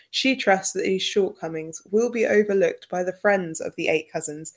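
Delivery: measured read-aloud in a British accent; British-accented literary reading; formal preface reading. Real, not acted. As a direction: read an author's preface aloud, articulate and composed. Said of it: "preface in my British accent".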